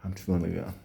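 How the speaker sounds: whispered thanks to God; whispering. Retold or imitated. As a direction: whisper a grateful prayer. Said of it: "That's what you're saying to yourself".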